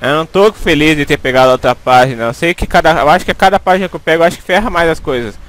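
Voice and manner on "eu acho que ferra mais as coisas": ordinary delivery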